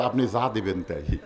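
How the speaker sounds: low, soft voice giving in; lightly acted meek surrender; cowed butcher. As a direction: yield meekly, mock-frightened. Butcher yields under a raised blade.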